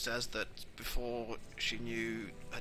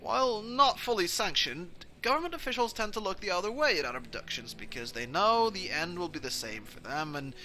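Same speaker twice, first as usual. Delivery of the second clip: louder, swooping politician's patter; lightly acted genial villain; self-justifying vampire dad; 3 semitones higher, 4 dB louder than usual. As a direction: justify it smoothly, like an official. Plays vampire dad justifying himself.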